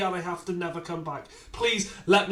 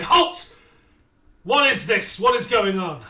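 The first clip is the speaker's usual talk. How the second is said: guard's challenge; 2 semitones higher, 5 dB louder than usual. Acted. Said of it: "guards come towards you and say".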